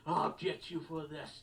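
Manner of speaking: slow, drawn-out foiled villain threat; sputtering foiled villain. Retold or imitated. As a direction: drag out the beaten baddie's vow. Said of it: "There you go".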